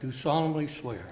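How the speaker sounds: clause read for repeating; oath prompt. Shown as a demonstration. Clerk reading the oath line for the mayor to repeat. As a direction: read out clearly for the mayor-elect. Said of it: "repeat after me".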